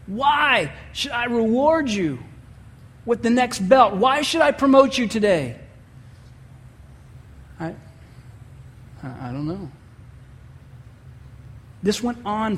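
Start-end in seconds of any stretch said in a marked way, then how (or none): 0.0-5.6 stern instructor asking again; repeated probing question. Retold or imitated. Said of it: "He asked him again". 7.6-9.7 small, much softer, lower mumble; boy mumbling to the instructor; mumbled. Retold or imitated. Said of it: "He kinda would mumble".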